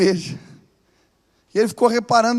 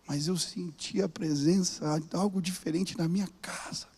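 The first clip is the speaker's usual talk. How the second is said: hushed whisper, slow and awed; 7 dB quieter, slower than usual. Retold or imitated. Housekeeper telling the pastor about the presence, whispered. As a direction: whisper it like a secret.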